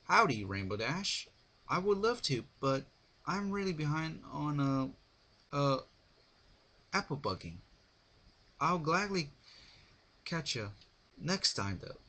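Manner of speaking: panting between words; out of breath. A narrator's reading. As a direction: speak winded from farm work. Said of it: "Applejack panted".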